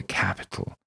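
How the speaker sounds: breathy pleased repeat; pleased whisper. Acted. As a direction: breathe the word capital with relish. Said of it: "He's very pleased".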